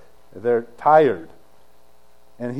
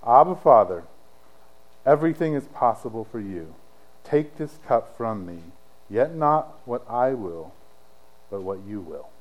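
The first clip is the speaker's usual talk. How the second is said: retold tearful prayer; 5 semitones lower than usual. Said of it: "he starts crying".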